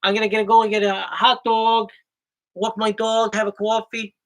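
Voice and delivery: New York vowels on walk and dog; New York accent. Shown as a demonstration. Husband demonstrating New York talk, New York accent. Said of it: "That's how New Yorkers say it".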